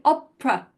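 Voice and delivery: "opera" in English, E and final A shrunk to uh; schwa pronunciation. Shown as a demonstration. Teacher shows English learners the schwa, "opera" with shrunk uh vowels. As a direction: shrink "opera" down to OP-ruh. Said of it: "they're being shrunk".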